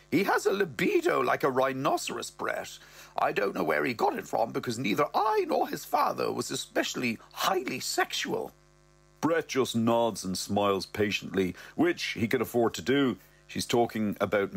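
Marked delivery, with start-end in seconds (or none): 0.1-8.5 lightly raised mother voice; a hint of the mum's voice; mother's voice. Mother confiding in Brett, lightly voiced. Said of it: "she goes".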